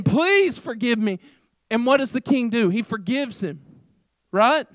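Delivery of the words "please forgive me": drawn-out plea, lightly acted; mock begging. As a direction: stretch out an imitation of a debtor begging. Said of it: "begging him".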